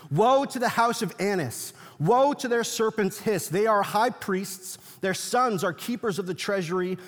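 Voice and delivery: put-on measured, weighty reading of an old text; preacher reading the Talmud to his congregation, solemnly; solemn scripture reading. Reads a Talmud passage aloud.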